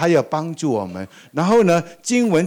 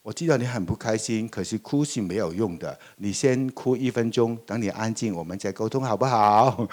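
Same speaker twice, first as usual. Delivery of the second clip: put-on softer, gentle reassurance to a crying child; 温柔安抚; 3 semitones lower, 4 dB quieter than usual. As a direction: soothe the child softly and patiently. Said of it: "你就跟他讲". (轻声细语地安抚哭闹的孩子)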